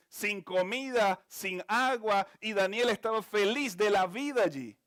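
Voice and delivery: fervent pulpit preaching; impassioned preaching. Acted. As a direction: preach it out to the congregation. Preaching the peace of God.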